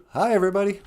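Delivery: high little puppet greeting; high cartoon sidekick voice; Niji puppet voice. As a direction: chirp hello as the puppet. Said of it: "Say hello, Niji".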